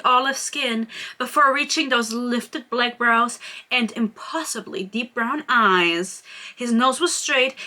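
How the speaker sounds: measured, expressive reading aloud from a romance novel; story narration. A narrator's reading. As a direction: read the character description with deliberate phrasing. Reads book passage aloud.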